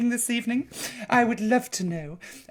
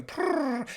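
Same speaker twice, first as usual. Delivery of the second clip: cat purr; 7 semitones higher, 5 dB quieter than usual. Retold or imitated. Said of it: "she'd be on".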